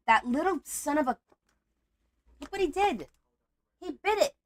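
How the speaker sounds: high-pitched indignant complaint; indignant outrage. Real, not acted. Crafter showing her partner the bitten envelope, high outrage. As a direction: pitch up in disbelief at the damage.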